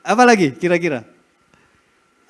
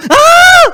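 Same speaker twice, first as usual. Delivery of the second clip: short shrill frightened scream, much higher and louder; playful imitation of a scared scream; mock scream; 11 dB louder than usual. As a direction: let out a startled woman's shriek. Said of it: "perempuan teriak kalau lihat".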